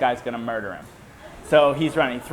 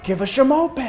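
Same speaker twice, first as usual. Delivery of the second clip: high-pitched mock kid voice; put-on high kid yell; imitated demanding kids; 12 semitones higher, 4 dB louder than usual. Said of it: "And they're all like".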